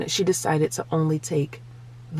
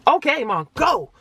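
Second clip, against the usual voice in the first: put-on higher, brisk kid voice; imitated daughter; 6 semitones higher than usual. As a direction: give mom the go-ahead like a child. Voices daughter giving permission.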